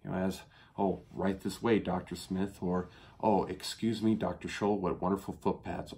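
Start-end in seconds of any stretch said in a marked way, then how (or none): 0.8-2.6 mildly fawning usher act; lightly put-on deference; mock reverence. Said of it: "treated with such reverence". 3.2-5.9 lightly put-on flattery; mildly fawning admirer act; mock reverence. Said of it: "treated with such reverence".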